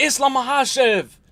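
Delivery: mock furious, high, angry shout. Retelling Khabib yelling at a cameraman: imitating Khabib shouting angrily. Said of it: "So he says".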